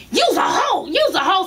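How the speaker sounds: high-pitched imitation of a shouting match; mock yelling. Retelling two mamas cursing each other out, mock yelling. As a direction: fling it out as a mock yelled insult. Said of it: "So they yelling back and forth".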